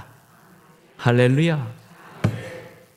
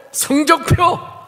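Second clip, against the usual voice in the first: very slow, much higher single word; ominous father; 5 dB louder, much slower than usual. Retold or imitated. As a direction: drop one word like a verdict. Father demands report card.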